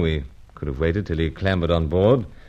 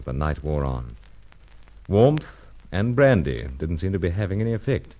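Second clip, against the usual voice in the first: story narration; 2 semitones lower than usual. A narrator's reading. Narrator recounts the case between scenes.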